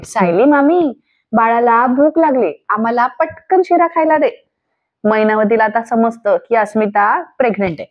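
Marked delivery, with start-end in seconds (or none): 0.0-4.5 calling out. Retold or imitated. Asmita asks her aunt to serve the sheera, lightly calling out. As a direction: imitate someone calling across the house. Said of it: "अस्मिता तिला आवाज देते".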